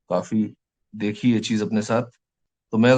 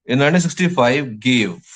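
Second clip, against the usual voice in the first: dictation pace; much slower than usual. Shown as a demonstration. Teacher dictating English notes.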